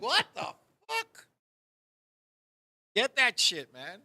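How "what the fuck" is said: shocked. Retold or imitated. Retold shocked reaction.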